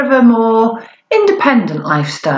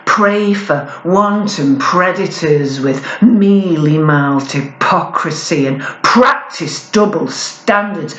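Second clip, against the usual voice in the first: slow, measured spoken word poem delivery; poem recitation; 3 semitones lower, slower than usual. Acted. Performer reciting her poem to a live audience, measured. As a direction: lay each line down deliberately like a performance poet.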